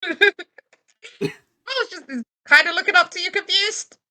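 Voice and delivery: high, lightly voiced little creature; a hint of a confused critter; Pokemon voice. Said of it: "Sangria, say hi".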